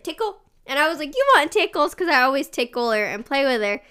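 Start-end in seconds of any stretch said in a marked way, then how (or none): 0.0-0.4 put-on small, high toddler voice; toddler request. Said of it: "she was like". 1.1-1.9 put-on high, lilting question to a toddler; light mock-excited parent voice; playful baby talk. Mother playing with toddler, retold.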